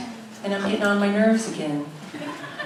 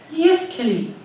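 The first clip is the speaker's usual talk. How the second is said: voicing Deepika; 7 semitones higher, slower than usual.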